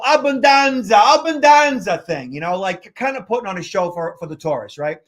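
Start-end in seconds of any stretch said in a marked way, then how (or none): 0.0-2.0 hammed-up Italian host shout; Italian maitre d' showing off. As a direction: belt it like a showy Italian host for the tourists. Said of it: "I'm Italian, so I can speak like this".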